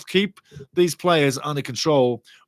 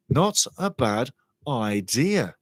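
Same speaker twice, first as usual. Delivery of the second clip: half-speed, "Not a bad idea" drawn out word by word; deliberate repetition; 2 semitones lower, much slower than usual. Real, not acted. Commentator mulling a player's move to MLS, slow and deliberate. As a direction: stretch "Not a bad idea" slowly, pausing between words. Repeats himself slowly for emphasis.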